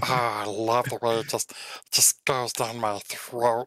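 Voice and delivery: lightly voiced fox, relishing every word; fox in clean voice. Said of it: "I'm gonna do this in the clean voice".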